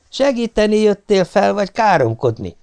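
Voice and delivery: high-pitched scolding wife; snapping at husband. A narrator's reading. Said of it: "förmet rám hitvesem a magasból".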